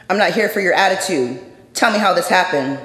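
mild mock of an angry officer; angry cop. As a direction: snap at them like an irritated cop. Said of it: "The cop's response was instant and angry".

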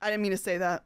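laughing embarrassed. Real, not acted. Embarrassed, laughing at own slip.

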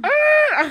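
high mock creature roar; Chewbacca. Attempting a film creature, high mock roar. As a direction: let out a rolling alien howl.

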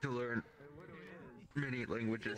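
talking through hiccups; hiccuping between words. Real, not acted. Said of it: "I cannot stop hiccuping".

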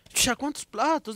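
slow, high, drawn-out scolding mother; retelling his mother, mother asks slowly and high how many plates; mock mother scolding. Mother scolding about dirty dishes.

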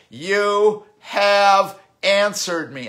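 very high, loud and slow exultant cry; stretched shout of victory; triumphant cry. Retold or imitated. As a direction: proclaim the answer as a breakthrough. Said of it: "the Lord cries out".

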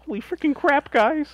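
high, loud hammed-up shout; mock excited yell. Hosts riffing on Foley, hammed-up loud yell. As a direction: yell it like a giddy wrestling promo.

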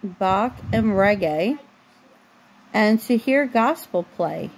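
slow, even storybook reading; reading to a child. A narrator's reading. Mom reading a bedtime book to her daughter, slow storybook voice. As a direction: read the picture book aloud, unhurried, for a little one.

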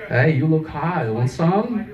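mock Swedish street-seller accent. Shown as a demonstration. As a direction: pitch it up with a playful Swedish lilt. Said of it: "talk in Swedish accents".

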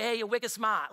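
quick mock Boston accent, wicked as very. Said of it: "taking place in Boston".

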